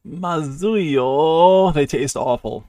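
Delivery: mock-miserable, drawn-out moan; disgusted whine. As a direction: whine about a horrible taste. Character complains of sour apples.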